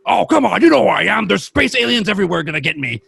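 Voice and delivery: high, loud ranting mock conspiracy voice; hammed-up ranting radio host; imitating a loud, paranoid ranter demanding recognition; Alex Jones. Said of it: "Alex Jones".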